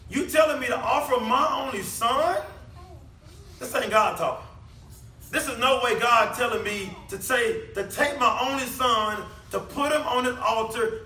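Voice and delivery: indignant mock disbelief, rising to a question, then insisting; incredulous protest. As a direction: play a stunned father refusing to believe it. Acts out disbelief at God's command.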